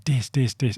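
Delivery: "dis, dis, dis" in a row; imitating parents. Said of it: "they're going".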